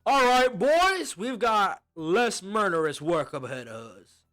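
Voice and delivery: yelling to the crew. Acted. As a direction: bellow it across the camp to the boys, slow and proud. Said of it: "He yells inside".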